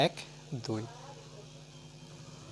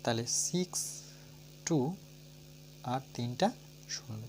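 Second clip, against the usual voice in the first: put-on spelling aloud for children. Shown as a demonstration. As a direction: clear dictation of each letter for pupils. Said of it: "আমার উচ্চারণটা শুনে নাও". (শিশুদের জন্য স্পষ্ট করে বানান বলা)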